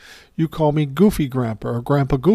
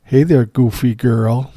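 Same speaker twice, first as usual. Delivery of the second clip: smirking; 4 dB louder than usual. Retold or imitated. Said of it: "I kinda smirked and I said".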